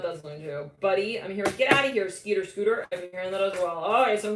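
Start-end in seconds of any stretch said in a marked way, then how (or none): 1.6-2.9 louder, shooing someone off; playful mock shout. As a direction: shoo them away with a grin. Spirit voice scolds playfully.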